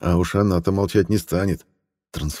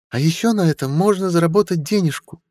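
imitating the antiquarian; 11 semitones higher than usual. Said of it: "чуть копируя интонации Шлюнта".

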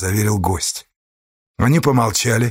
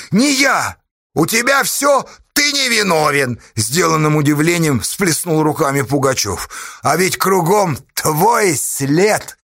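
raised, pressing accusation; accusing Pugachev; 6 semitones higher than usual. A narrator's reading. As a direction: lean on him hard.

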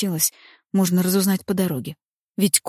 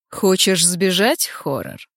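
menacing taunt; slower than usual. Acted. Хозяин замка насмешливо угрожает.

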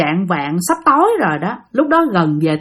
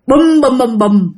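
"bùm" repeated as falling plops; mimicked splash sounds, first one higher; imitated splashing plunges; 3 semitones higher, slower than usual. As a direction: voice a string of bodies hitting water. Imitates people jumping into the river.

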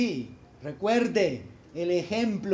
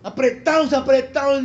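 mock tense; 3 semitones higher, 5 dB louder than usual. Shown as a demonstration. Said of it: "La gente entusiasta no anda así".

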